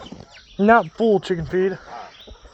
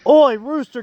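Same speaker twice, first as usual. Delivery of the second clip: calling out; 6 semitones higher, 4 dB louder than usual. Real, not acted. Shouting at rooster on roof.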